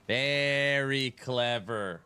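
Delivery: slow, sarcastic very clever; slow, sardonic very clever; drawn-out sarcasm. Real, not acted. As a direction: stretch it out, dry and mocking.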